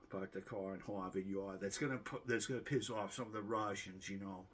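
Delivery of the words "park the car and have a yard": r's lightly dropped in a Boston way; a second, milder go at a Boston accent. Retold or imitated. YouTuber repeating the Boston line for viewers, mild Boston accent. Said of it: "Unless I use my Boston accent".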